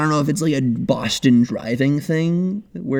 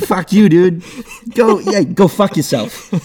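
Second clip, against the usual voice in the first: loud, raised, slowing Boston bro taunt; bad Boston accent; 6 semitones higher, 6 dB louder than usual. Shown as a demonstration. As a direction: hurl it in a Boston accent, drawing out the end. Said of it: "I gotta get, like, into character".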